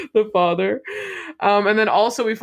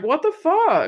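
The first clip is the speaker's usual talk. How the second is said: high, stunned mock outburst; a high, stunned "What the fuck?"; mock shock; 10 semitones higher than usual. Her reacting to the log cabin, high and stunned. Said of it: "I was like".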